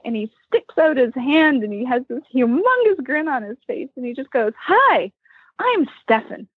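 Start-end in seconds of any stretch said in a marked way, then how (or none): 4.6-6.5 cheerful greeting. Retold or imitated. Voicing Stefan's cheerful greeting.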